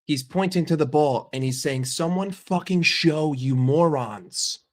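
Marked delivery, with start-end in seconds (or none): 1.9-4.6 slow, drawn-out exasperated plea; imitated exasperation. Player berating motionless teammates while pointing to the ball, exasperated. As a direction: act out a fed-up player, dragging each word.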